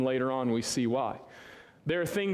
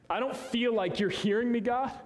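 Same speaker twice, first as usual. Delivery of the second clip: higher, pleading cry to God; pleading prayer; 8 semitones higher than usual. Pretend. Preacher voicing a hurting believer's plea to God, pleading. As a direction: plead upward like a frustrated believer.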